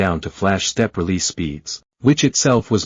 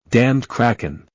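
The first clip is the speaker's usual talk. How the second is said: bellowing; slower than usual. A narrator's reading. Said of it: "the captain bellowed".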